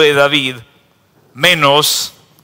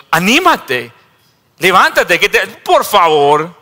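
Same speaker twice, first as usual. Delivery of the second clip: high, loud excited coaxing; excited crowd voice; eager urging; 6 semitones higher, 5 dB louder than usual. Acted. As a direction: hurry him up eagerly. Crowd urges the blind man.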